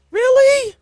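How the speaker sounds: very high squeaky really; delighted surprise. Real, not acted. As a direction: squeal it, flattered. Reacts to compliment.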